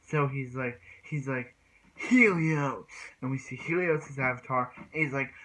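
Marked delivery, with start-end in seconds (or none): 2.0-2.9 high, loud battle call; summoning shout. Retold or imitated. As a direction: yell the avatar's name into the arena. Calling out Helios' avatar in battle.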